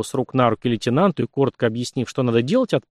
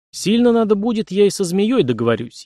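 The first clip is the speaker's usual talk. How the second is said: sly smirk; 8 semitones higher than usual. A narrator's reading. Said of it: "ехидно усмехнулся Сашка".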